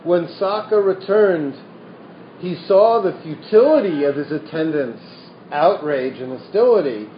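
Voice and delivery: lively storytelling voice reading scripture; animated reading of a Buddhist parable; story narration. A narrator's reading. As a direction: tell the old tale to the room. Continues reading the sutta story.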